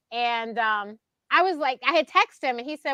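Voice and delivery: ordinary delivery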